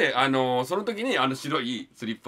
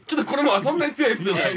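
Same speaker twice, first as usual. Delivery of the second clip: laughing; 4 dB louder than usual. Real, not acted. Self-deprecating about his story.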